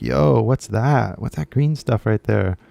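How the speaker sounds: put-on a baby pointing at new things; curious baby. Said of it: "if I was a baby, I'd be like".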